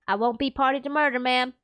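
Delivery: put-on Texan accent. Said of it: "Am I doing the accent?".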